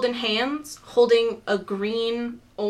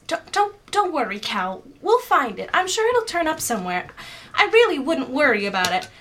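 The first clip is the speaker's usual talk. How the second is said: higher-pitched, stammering comfort; flustered reassurance; 5 semitones higher than usual. Acted. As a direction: gently talk down someone upset. Morgana reassures upset dwarf woman.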